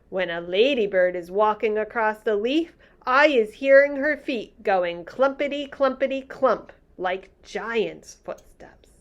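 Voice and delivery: gentle giant marvelling; lightly voiced friendly giant. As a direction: read the giant's lines a touch bigger. BFG giant voice in story.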